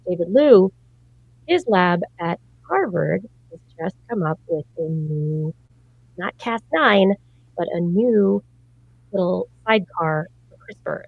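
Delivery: muffled, as if underwater; underwater sound. Real, not acted. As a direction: voice warbling like under water. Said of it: "you sound like you're underwater".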